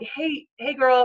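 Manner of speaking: put-on slow, stretched friendly girl-talk greeting; drawn-out hey girl greeting. Shown as a demonstration. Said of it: "'cause I don't talk like that".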